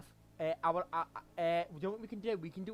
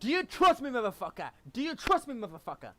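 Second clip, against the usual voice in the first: high, loud hammed-up gamer yell; co-host riffing on the shout, mock yelling; 7 semitones higher, 11 dB louder than usual. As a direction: bellow it at a teammate for laughs. Echoing the shouted teammate line.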